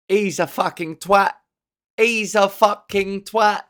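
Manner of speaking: hammed-up local Canadian accent; exaggerated Canadian small-town talk; mock Canadian accent. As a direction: put on a Canadian accent, drawing out the repeat. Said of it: "That's how they talk in Canada".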